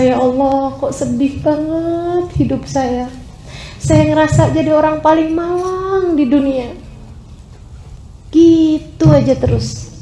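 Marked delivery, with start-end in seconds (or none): 0.1-6.9 retold tearful lament. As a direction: imitate someone lamenting their misery. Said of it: "Saya menangis, saya ngerasa". (meratap sedih, menirukan)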